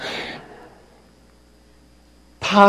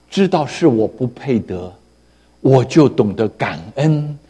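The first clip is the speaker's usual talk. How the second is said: tender address; 3 semitones lower, 5 dB quieter than usual. Real, not acted. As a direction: speak gently to the brothers and sisters. Pastor turns tender to congregation.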